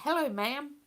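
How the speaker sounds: a light Texan twang on "ma'am", said as /mæ̃m/; American Southern accent. Shown as a demonstration. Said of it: "I can't say ma'am without the accent".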